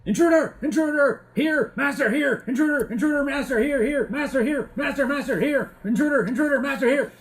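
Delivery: high, loud, repeated alarm cries; frantic shouting. Acted. Guard raising the alarm to master about intruders, shouted. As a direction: shout the warning over and over, high-pitched. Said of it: "you hear somebody shouting".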